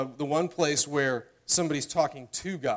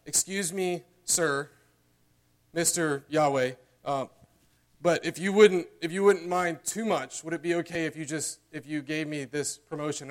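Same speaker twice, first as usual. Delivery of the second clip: a hint of an overly polite suitor asking permission; timid polite asker. Suitor asking a potential father-in-law, mock timid politeness. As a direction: tiptoe through it, mock deference. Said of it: "you're asking your potential father-in-law".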